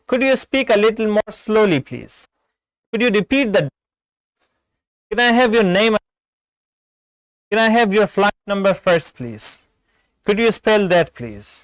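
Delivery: measured textbook example, each phrase spelled out slowly; model phone questions. Shown as a demonstration. Teacher models questions for callers to ask, slow and polite.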